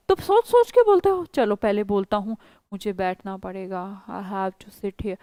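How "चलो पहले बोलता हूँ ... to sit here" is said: halting hesitant speech. Retold or imitated. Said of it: "तो ऐसे बोलते हो?".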